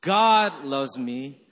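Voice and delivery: "God" punched long and loud, slow; stress on GOD. Shown as a demonstration. Pastor leading congregation slowly, stress on "God". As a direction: hit the word "God". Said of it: "Let's do this slowly".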